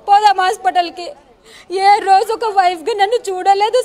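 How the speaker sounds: holding back tears as she speaks; a real tremor of crying under the words. Real, not acted. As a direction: voice catching on a sob. Tearful woman recounting husband's words.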